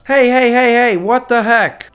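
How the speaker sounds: high, loud burst of protest; alarmed outcry. Real, not acted. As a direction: shout out in startled protest. Surprise war declaration from China.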